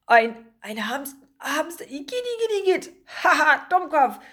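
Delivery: high, mocking bird squawk; squawking seagulls. A narrator's reading. Two seagulls mock their colleague's catch, squawking. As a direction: jeer like a cackling gull. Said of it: "krächzten zwei Möwen".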